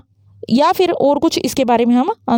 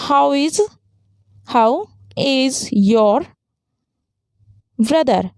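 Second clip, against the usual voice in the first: slow, gently rising polite question; much slower than usual. Shown as a demonstration. Teacher showing students a polite question, slow and gently rising. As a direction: ask kindly, letting the tune lift at the end. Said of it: "हम use करते हैं rising intonation".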